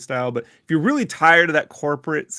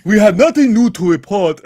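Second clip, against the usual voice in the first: mock announcer; 7 semitones higher, 8 dB louder than usual.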